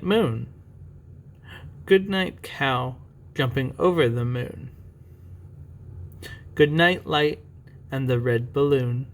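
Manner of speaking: put-on slow, measured reading to children; picture-book reading. Parent reading a bedtime picture book to a child, storytime voice. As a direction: read it out slowly, lingering on each thing. Reads bedtime goodnights aloud.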